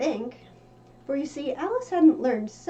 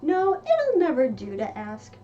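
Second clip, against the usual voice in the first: Alice voiced lightly. Alice talking to herself while falling, lightly voiced girl. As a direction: puzzle it out as young Alice.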